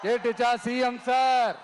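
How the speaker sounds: pointed call to the chief minister, last word held; formal taunt. Real, not acted. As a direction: switch to mock-respectful address. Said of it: "ஆசையா பாசமா கூப்பிட்டா பிடிக்க மாட்டேங்குது". (மரியாதையாக சீண்டும் அழைப்பு)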